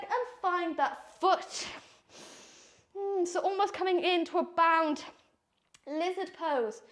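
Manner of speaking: breathless from the flow; out of breath. Real, not acted. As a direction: speak while catching breath. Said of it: "I'm out of breath already".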